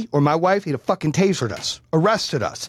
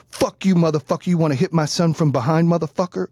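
higher-pitched retold confrontation; angry dad; 3 semitones higher than usual. Dad confronts the parent over his son, angry. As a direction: act out the dad's angry challenge.

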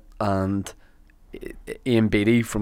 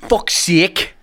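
exasperated exclamation; 8 semitones higher, 4 dB louder than usual. Retold or imitated. Reenacting the Beattie line.

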